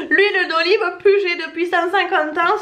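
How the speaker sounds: hint of a Marseille accent, ad slogan style. Vlogger quoting the olive oil TV ad, light Marseille accent. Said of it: "mon accent de Marseille".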